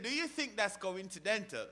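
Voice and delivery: a light mock British accent. Preacher quoting the actor after a laugh, light British accent. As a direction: repeat the question with a touch of British. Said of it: "his British accent".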